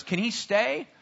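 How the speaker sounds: a hint of a pleading child; child begging for a dog. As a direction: beg lightly like a kid with a stray. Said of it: "it's almost like he has a dog".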